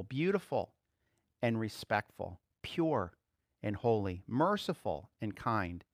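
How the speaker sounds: measured reading that softens toward the end; scripture reading. Acted. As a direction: reverent Bible reading.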